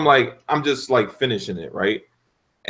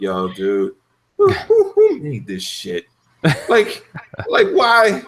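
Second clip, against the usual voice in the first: high, disbelieving mock rant; incredulous rant; 10 semitones higher than usual. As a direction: rant like the level is unfair. Ranting at platforming section.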